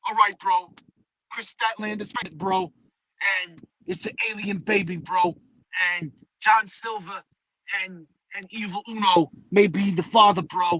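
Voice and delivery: a hint of New York accent, each bro tossed off; mock Vince Russo. Mocking Vince Russo pitching a storyline, light New York accent. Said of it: "tried to do it weird with him".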